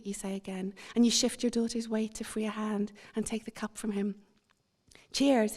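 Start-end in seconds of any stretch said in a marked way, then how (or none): 5.1-5.5 "Cheers" stretched almost into two syllables with a Canadian twang; a husband's friendly Canadian "Cheers", brighter and a bit louder. Retold or imitated. Toasting a fellow passenger on the plane, light Canadian twang. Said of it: "the twang of his accent making it almost two syllables".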